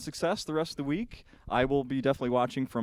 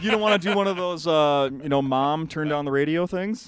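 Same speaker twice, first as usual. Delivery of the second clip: laughing; 3 semitones higher, 6 dB louder than usual. Real, not acted. Teasing while laughing.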